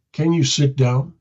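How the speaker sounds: a question said as a firm command; command tonality. Shown as a demonstration. Helper telling a panicking person to sit, in a command tone. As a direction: ask it so they just do it. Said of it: "with a command tonality".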